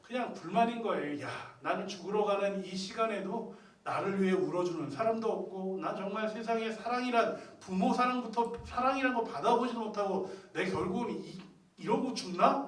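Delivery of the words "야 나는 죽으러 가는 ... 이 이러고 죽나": higher-pitched, aggrieved complaint; acted discontent. Condemned thief complaining that nobody cries for him, aggrieved. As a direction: grumble as the condemned man, voice raised. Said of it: "그런 불만으로".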